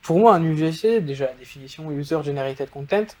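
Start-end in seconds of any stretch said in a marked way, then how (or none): 1.9-3.1 User Generated Content in English, French-accented pronunciation. Real, not acted. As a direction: say the English term in a French accent, a bit apologetic. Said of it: "pardon pour mon accent anglais".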